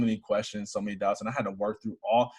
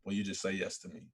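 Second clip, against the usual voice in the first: whisper; 4 semitones lower, 11 dB quieter than usual. Retold or imitated. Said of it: "whisper to me and say".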